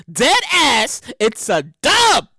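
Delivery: slow, drawn-out Brooklyn refusal. Shown as a demonstration. Podcaster turning down a friend request, Brooklyn accent. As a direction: put on a touch of Brooklyn. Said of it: "In my Brooklyn voice".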